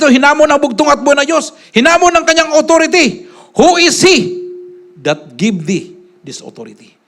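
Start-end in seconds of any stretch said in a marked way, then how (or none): 3.5-7.0 challenging question. Retold or imitated. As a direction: quote the challengers like scripture. Challengers question his authority.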